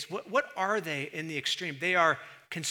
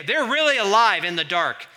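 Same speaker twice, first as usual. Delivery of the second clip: mock amazement; 4 semitones higher, 10 dB louder than usual. Second absurd mock remark.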